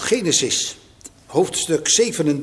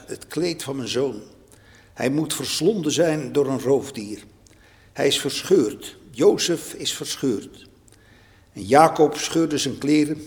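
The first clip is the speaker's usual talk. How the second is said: scripture reading. Acted.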